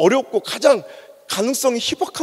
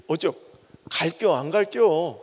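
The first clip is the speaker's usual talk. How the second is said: slow Chungcheong dialect; 4 semitones lower, 4 dB quieter, slower than usual. Retold or imitated. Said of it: "가장 완곡한 부정적인".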